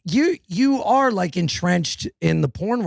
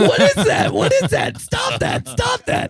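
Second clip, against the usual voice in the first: playful yell. Acted. Teasing friend over his look.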